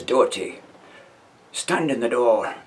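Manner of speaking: firm, slow command, lightly voiced; a hint of a parade-ground sergeant; sergeant's order. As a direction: sergeant calling the second man to the door, lightly voiced.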